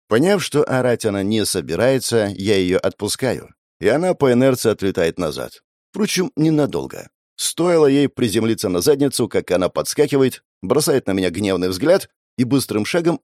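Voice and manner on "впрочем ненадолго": ordinary delivery, nothing marked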